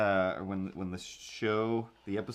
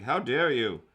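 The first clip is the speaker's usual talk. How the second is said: mock indignant. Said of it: "being indignant".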